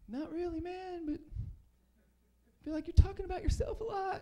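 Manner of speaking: high annoyed voice. Retold or imitated. Comic telling McDonald's it only talks about itself, high and slow. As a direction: push back, slow and pointed. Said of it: "And I was like".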